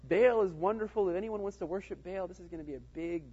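acted-out gushing proclamation; mock enthusiasm. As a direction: hype it up like a event promoter. Acting out Jehu rallying Baal worshipers.

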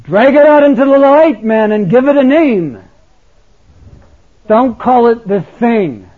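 put-on loud, high Welsh-accented preaching; Welsh preacher accent. Welsh accent, preacher urging his church. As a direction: boom it out like a Welsh pulpit preacher. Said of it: "He had this heavy Welsh accent".

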